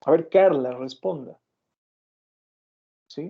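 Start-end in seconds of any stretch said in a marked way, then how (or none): 0.1-1.4 stern teacher demand. Shown as a demonstration. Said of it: "utilizo el tono que estoy utilizando".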